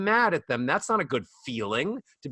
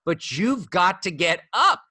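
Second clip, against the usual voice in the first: lively wake-up pep talk to oneself; inside voice; 3 semitones higher, 3 dB louder than usual. Acted. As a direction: nudge yourself firmly out of bed. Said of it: "That's my inside voice".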